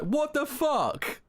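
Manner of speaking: slow, stretched-out what the fuck; hammed-up shock, every word pulled long; drawn-out disbelief. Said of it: "in the corner like".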